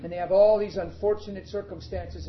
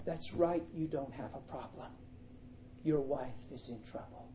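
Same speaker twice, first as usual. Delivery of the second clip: soft, low, steady reply; calm divine voice; 3 semitones lower, 7 dB quieter than usual. Retold or imitated. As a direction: answer gently and firmly as God. God answers calmly after outburst.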